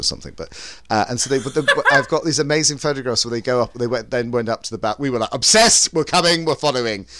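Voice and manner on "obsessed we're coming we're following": excited fan squeal. Retold or imitated. Fans following costumed pair.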